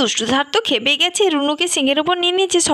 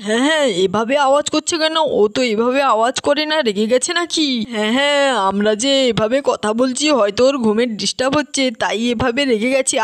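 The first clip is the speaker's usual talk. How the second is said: lower-pitched character voice, puzzled; story character, puzzled; 3 semitones lower than usual. Acted. Villager wonders why the bull is angry, puzzled low voice.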